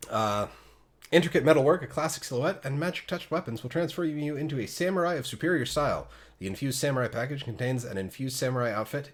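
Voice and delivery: high, bright ad-read announcer; news anchor voice. Pretend. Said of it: "transferred full on to my news anchor voice".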